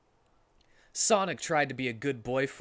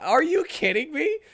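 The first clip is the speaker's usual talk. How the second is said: put-on squeaky indignant girl voice; high Amy voice; 9 dB louder than usual. Amy reacts to Sonic's question, squeaky voice. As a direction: shoot up high and loud as Amy.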